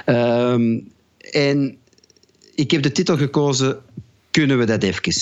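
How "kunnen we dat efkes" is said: Antwerp dialect, "even" said as "efkes". Shown as a demonstration. Songwriter announcing his song title, in Antwerp dialect. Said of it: "in mijn Antwerps dialect".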